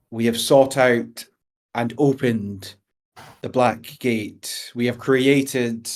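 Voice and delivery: slow, measured royal speech; formal court address. Acted. Adventurer addresses the goblin king, slow and formal. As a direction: address the throne with grave ceremony.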